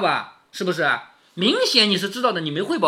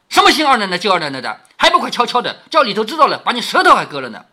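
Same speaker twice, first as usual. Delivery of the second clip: retold sharp telling-off, louder; mock reprimand with raised volume; scolding; 2 semitones higher, 5 dB louder, faster than usual. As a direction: scold servants for gossiping. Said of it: "吆喝了两个一顿".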